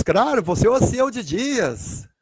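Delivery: high, exclaiming reply; elated recognition. Acted. Daniel recognising Jesus in paradise, elated exclamation. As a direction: burst out as you recognise him.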